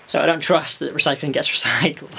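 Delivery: breathless, puffing between words; out of breath. Real, not acted. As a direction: talk while short of breath. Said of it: "I'm out of breath".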